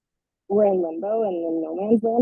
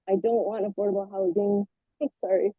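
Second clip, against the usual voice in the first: muffled; 5 dB quieter than usual. Real, not acted. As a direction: voice muffled, as if covered. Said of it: "muffled a little bit".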